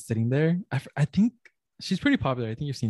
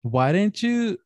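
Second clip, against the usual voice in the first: put-on jealous girlfriend. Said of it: "And she goes".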